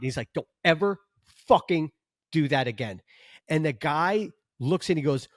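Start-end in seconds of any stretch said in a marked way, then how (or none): 0.3-3.0 measured reprimand, word by word; retold scolding. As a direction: lay down the law with pauses, mildly acted.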